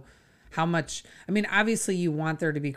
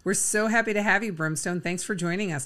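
upbeat, quick show-host welcome; announcer voice; 4 semitones higher than usual. Acted. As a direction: introduce the guest like a presenter. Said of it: "I need to have my announcer voice on".

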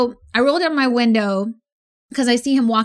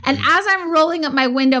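normal talking voice

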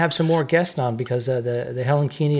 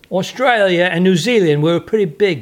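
bad Australian accent; 4 semitones higher, 5 dB louder than usual. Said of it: "That's a bad accent".

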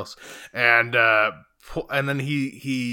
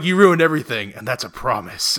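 mock villain line. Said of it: "He says something like".

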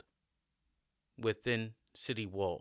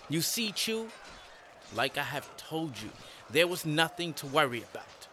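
gloating emperor; 2 semitones higher, 4 dB louder than usual. Acted. Emperor gloats over victory.

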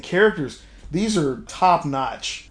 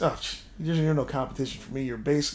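smug dismissive; 5 dB quieter than usual. Retold or imitated. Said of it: "basically is what he was saying".

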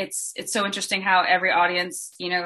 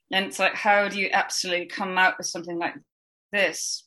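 quiet, barely moving the lips; stiff lipless voice; 3 dB quieter than usual. Shown as a demonstration. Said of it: "talking like this".

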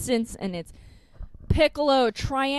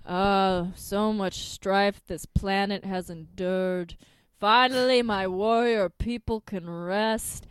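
solemn mock lament; 4 semitones lower, slower than usual. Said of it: "does his best indigenous person crying".

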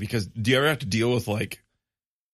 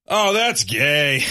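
deadpan comedian; 4 semitones higher, 6 dB louder, much slower than usual. Retold or imitated. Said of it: "like, a thirty-five-year-old stand-up comedian".

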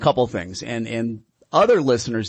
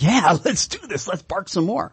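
dog's voice; 6 semitones higher than usual. Retold or imitated. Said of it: "so the dog's like".

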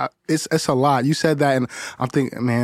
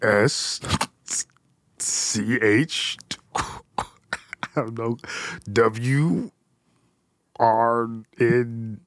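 Cookie Monster voice; much slower than usual. Pretend. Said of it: "in your best Cookie Monster voice".

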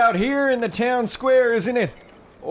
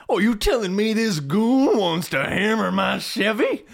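outraged shout. Acted. Father outraged at the dentist.

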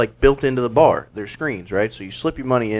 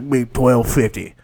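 imitating the bartender; 3 semitones lower, slower than usual. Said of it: "But he's like".

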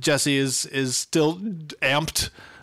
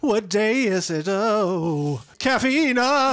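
lightly high, dazed and muddled; groggy confused Jesse; 5 semitones higher, slower than usual. Retold or imitated. Imitating Jesse waking up confused, lightly high. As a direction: sound half-awake and lost. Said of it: "She's like".

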